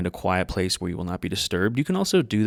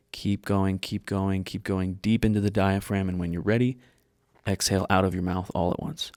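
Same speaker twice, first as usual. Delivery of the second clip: guided meditation. Real, not acted. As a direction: guide them calmly, leaving space between phrases.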